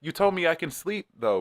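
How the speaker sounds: quoting a singer. Retold or imitated. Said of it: "he said something like".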